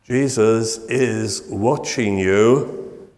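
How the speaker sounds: drawn out like a hidden voice; spooky slow parrot voice; eerie slow voice. Acted. Mysterious voice in dark house.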